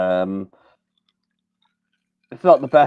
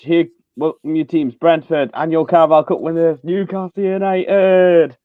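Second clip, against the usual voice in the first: stadium announcer; 5 semitones higher than usual. Retold or imitated. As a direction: announce the teams to the crowd. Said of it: "the guy who does the announcements".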